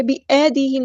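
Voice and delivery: بِأَيْدِيهِمْ with ay flattened to a long e; misread leen. Shown as a demonstration. Teacher shows the error, e for ay in بِأَيْدِيهِمْ. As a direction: say bi-e-di-him for بِأَيْدِيهِمْ. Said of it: "نہیں".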